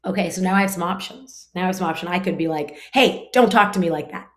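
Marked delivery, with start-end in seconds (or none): 2.9-4.3 louder, sharp parental telling-off; demonstrated stern rebuke; cutting tone. Acted. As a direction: act out snapping at a rude child. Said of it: "cutting with him".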